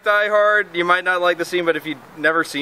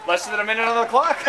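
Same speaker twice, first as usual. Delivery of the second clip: game show host; 3 semitones higher, faster than usual. Retold or imitated. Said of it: "like, a game show host".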